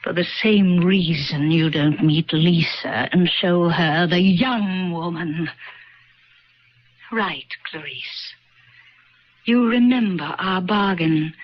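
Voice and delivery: put-on cold old voice reminding her; old woman. Old woman reminding her of the bargain.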